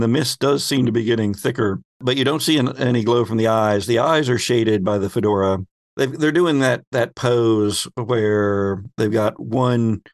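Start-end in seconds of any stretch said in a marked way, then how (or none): none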